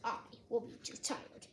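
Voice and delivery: low, soft, weary voice; drowsy, low refusal; tired Toad. A narrator's reading. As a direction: give up quietly and head for bed. Tired Toad declines Frog's plans.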